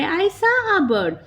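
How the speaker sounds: slow example reading. Shown as a demonstration. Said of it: "जैसे example है हमारे".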